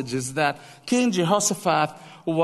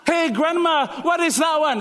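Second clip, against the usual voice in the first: put-on high, eager child voice asking grandpa; curious grandchild; 9 semitones higher than usual. Grandchild asking grandpa about old photos, high and eager. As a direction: play the curious kid, pitched well up.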